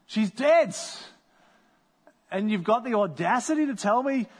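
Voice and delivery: incredulous, rising to a sharp she's dead; hurt, disbelieving retort; indignant disbelief. Pretend. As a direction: push back, offended by the words. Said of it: "That's a little cold and callous".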